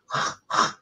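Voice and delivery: imitated throaty hacking sound; phlegmy accent noise. Mocking the Liverpudlian accent, throaty phlegm noises. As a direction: hack out mock phlegm. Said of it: "you've got a lot of".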